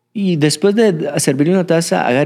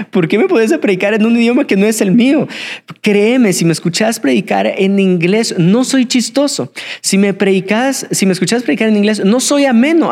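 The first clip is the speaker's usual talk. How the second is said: raised, animated preaching voice; excited preaching; 6 semitones higher than usual. Real, not acted. Preacher to his viewers about preaching in English, excited. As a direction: let the excitement lift every line. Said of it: "me exalto ahorita porque estoy emocionado".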